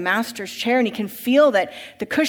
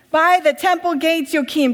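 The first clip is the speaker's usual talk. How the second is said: higher, louder exasperated shout; 6 semitones higher, 7 dB louder than usual. Acted. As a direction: bellow it at him in frustration. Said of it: "Dositheus shouting".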